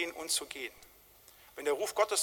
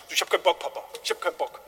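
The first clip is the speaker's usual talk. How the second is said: put-on sulky teenager; faster than usual. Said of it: "so wie so ein vierzehnjähriger sagt".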